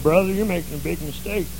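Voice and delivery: pinched, stuffed-up nose voice of an annoying deacon; nasal deacon impression. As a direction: say it like two carrots are stuck up your nose. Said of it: "two carrots stuck up each nostril".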